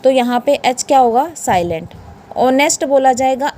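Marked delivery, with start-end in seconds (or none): 2.4-2.9 ऑनेस्ट starting straight on the O vowel; silent H. Shown as a demonstration. Teacher showing students honest, silent H pronunciation. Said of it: "एच को नहीं बोला जाएगा".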